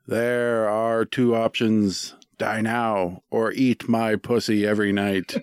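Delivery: slow, drawn-out decree from Death; booming Grim Reaper. Retold or imitated. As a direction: lay down the choice slowly, like a reaper. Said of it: "The Grim Reaper appears before you and booms".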